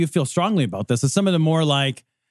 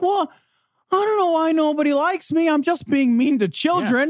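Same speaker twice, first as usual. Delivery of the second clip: much higher, whiny mock voice; mocking Jeff Sessions; 11 semitones higher than usual. Mocking Sessions to the cohost in a high whiny voice. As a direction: play him hurt and baffled that nobody likes him. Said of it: "somebody like Jeff Sessions who's like".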